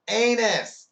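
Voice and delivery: high, loud outburst; frustrated texter raising the voice; exasperated shout. Acted. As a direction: shout the word in mock frustration. Acted texter insists after autocorrect error.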